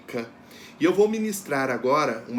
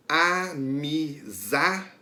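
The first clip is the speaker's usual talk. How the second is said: amizade drawn out very slowly, each syllable apart; teacher sounding out amizade syllable by syllable; much slower than usual. Shown as a demonstration. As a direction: split amizade into slow, separate syllables. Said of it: "que é pronunciada com mais força é za".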